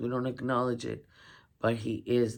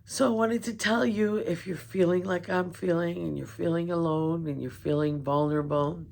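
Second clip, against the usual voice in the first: emotional; 5 semitones higher than usual. Real, not acted. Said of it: "and I'm tearing up".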